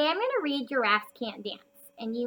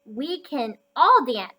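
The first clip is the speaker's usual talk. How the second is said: wise and gentle; 2 semitones higher, 7 dB louder, slower than usual. Acted. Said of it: "he said".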